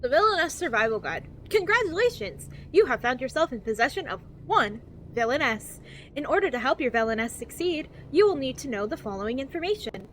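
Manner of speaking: over-enunciated guidebook narration, lilting up and down; cheery infomercial voice. Acted. Reading a survival guide to new players, cheery infomercial voice. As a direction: read it like a relentlessly positive infomercial. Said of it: "infomercial that's trying to be cheery and positive".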